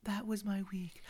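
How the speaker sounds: soft unvoiced whisper of the closing line. Real, not acted.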